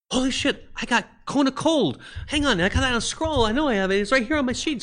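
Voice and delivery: high, loud, frantic exclamation; a player shouting in sudden panicked excitement; excited player. Retold or imitated. Player shouting in tense fight.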